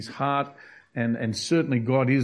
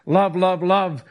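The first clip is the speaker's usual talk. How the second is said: raised, louder mock cry of love; mock shout; 6 semitones higher, 5 dB louder, slower than usual. Preacher mocking a wrong chant, louder and higher. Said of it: "They're not saying".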